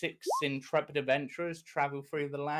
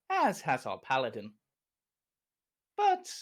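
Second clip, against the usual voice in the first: storyteller recap of last episode; recap narration. Acted. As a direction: set the scene like a TV recap.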